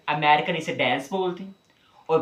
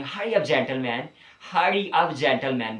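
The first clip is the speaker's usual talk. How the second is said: slow called-out demo; much slower than usual. Shown as a demonstration. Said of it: "आप बोले".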